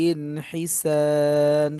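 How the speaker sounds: হিসান stretched very slowly, three alif long; held long alif. Shown as a demonstration. Teacher shows the three-alif stretch, very slow. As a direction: draw out the sa in হিসান. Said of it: "এভাবে পড়তে হবে".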